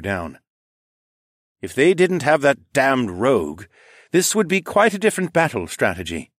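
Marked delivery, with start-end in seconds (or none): 1.6-6.3 gruff Horace. A narrator's reading. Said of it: "Horace said with a deep frown".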